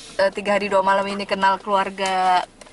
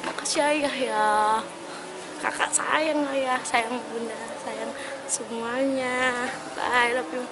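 holding back tears; 7 dB quieter than usual. Real, not acted. Fan says a tearful goodbye to the family, quiet and choked up. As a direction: voice on the edge of crying as she thanks the family. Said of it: "Suara dia udah beres tuh dia nangis".

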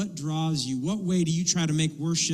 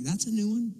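higher, restrained surprise; mildly surprised; 4 semitones higher, 4 dB quieter than usual. Acted. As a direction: priest reacting under the breath to a confession. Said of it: "he's surprised".

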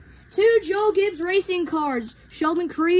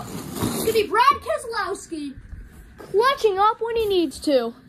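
excited race call; 3 semitones higher than usual. Real, not acted. Calling the race finish.

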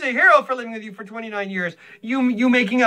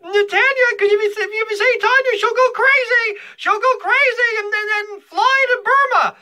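imitating crazed Jerry; 10 semitones higher than usual. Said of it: "he said".

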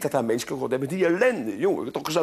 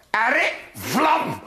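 magic shout; 5 semitones higher than usual. Acted. Child casting lightning.

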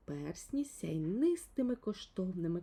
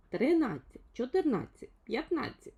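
lightly voiced little fellow counting the rings, higher; 5 semitones higher, 6 dB louder than usual. A narrator's reading. Little man counts the phone rings aloud, lightly voiced. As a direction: count each ring out loud, a little higher. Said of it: "лічив далі Півчеревичок".

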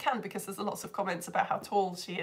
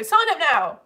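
a hammed-up salesy plug, louder; mock ad pitch; 6 semitones higher, 9 dB louder than usual. Shown as a demonstration. Teacher plugging her page to viewers, in a mock ad voice. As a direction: sell it like a cheeky advert. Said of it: "That's my, that's my ad".

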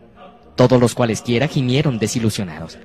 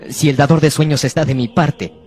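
shouting; 4 semitones higher, 3 dB louder than usual. Acted. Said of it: "gritó Ordinario".

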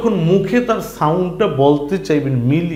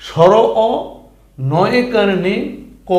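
louder spelling; 3 semitones higher than usual. Shown as a demonstration. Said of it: "ঠিক আছে?".

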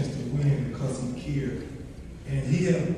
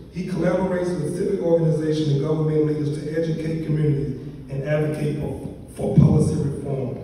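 formal bio reading. Real, not acted. Reads out the honoree's biography.

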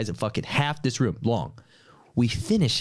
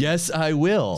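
slow, deliberate yes; slow, measured acceptance; 5 semitones higher, much slower than usual. Retold or imitated. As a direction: draw it out calmly and slowly. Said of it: "slowly said".

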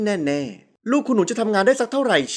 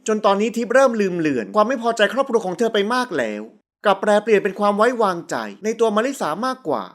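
ordinary delivery

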